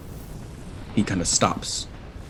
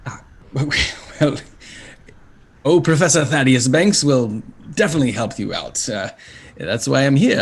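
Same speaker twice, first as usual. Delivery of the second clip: higher, stammering fussy little devil; flustered imp professor; 4 semitones higher, 4 dB louder than usual. Acted. Imp professor introducing himself to travellers, flustered and fussy. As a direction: trip over the words like a nervous bureaucrat. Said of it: "devilish imp".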